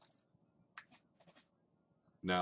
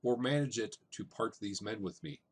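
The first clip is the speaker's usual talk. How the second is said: reading Shakespeare aloud; 3 semitones higher than usual. Shown as a demonstration. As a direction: read the line as poetry. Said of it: "I just pulled out this line".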